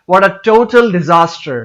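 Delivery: slow, with the TO of total punched; strong stress on TO-. Shown as a demonstration. Teacher stressing T-O for learners, strong stress on TO in total. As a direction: hit the first syllable of total hard. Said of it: "stress कर रहा हूं टी ओ टू के ऊपर".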